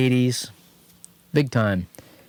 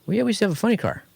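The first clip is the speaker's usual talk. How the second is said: higher, proud imitation of the shop guy; a keen boast about racing; proud shop owner; 10 semitones higher, much faster than usual. Shop guy boasting to him about his racing past, higher. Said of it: "He's like".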